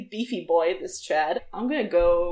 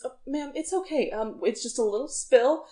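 concerned guard; 6 dB quieter than usual. Acted. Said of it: "looks concerned and says".

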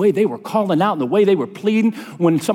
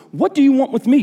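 scripture shout read aloud, higher at the start; mild shout; 8 semitones higher, 3 dB louder than usual. A narrator's reading. Preacher reading the demon-possessed man's words to Jesus, mild shout. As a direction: read a cry with a raised pitch, not full volume. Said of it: "He shouted at the top of his voice".

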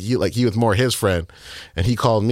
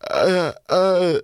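choked sobbing sounds; 11 semitones higher than usual. Retold or imitated. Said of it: "she just heard me crying".

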